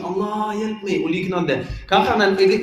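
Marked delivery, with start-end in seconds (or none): 0.0-1.0 high plea, calling out without real volume; acted cry to God, pitched up. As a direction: imitate a distressed man calling for help. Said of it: "Han kanske ropar ut".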